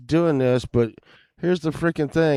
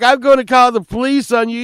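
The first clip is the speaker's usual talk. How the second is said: retold outraged threat; 8 semitones higher, faster than usual.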